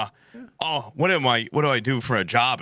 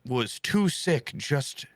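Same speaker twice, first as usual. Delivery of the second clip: incredulous rant; 2 semitones higher than usual. Retold or imitated. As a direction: drag it out in disbelief. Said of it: "I was the only one going".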